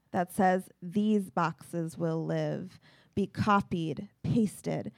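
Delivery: deliberate, even poem recital; poetry reading. Acted. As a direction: read line by line, pausing at each break. Reads short poems aloud.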